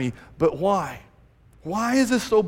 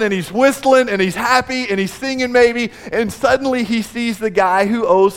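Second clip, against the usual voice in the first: building excitement; 4 dB louder than usual. Retold or imitated. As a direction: paint the servant's giddy relief with rising energy. Excited retelling of joyful servant.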